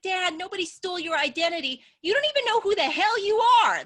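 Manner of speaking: high, loud mock outrage at dad; exasperated shout. Daughter mocking dad loudly.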